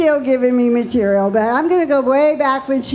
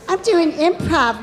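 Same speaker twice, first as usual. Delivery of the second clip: daughter voice; 6 semitones higher than usual. Retold or imitated. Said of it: "she goes".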